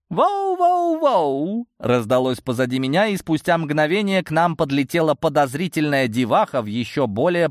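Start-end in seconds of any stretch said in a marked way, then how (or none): 0.1-1.7 high, slow drawn-out whoa; excited whoa. Acted. Girl rushing up to the group, excited drawn-out whoa. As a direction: swoop up into an eager whoa.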